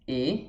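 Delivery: E as closed "ê", like Portuguese; French acute-accent E, not opened. Shown as a demonstration. Teacher listing three E sounds, closed E. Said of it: "quando tem acento agudo".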